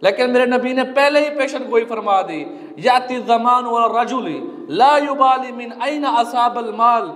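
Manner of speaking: earnest sermon delivery in measured phrases; preaching. Real, not acted. Preacher warning believers they will answer to Allah, earnest preaching. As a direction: preach it phrase by phrase, pausing between points.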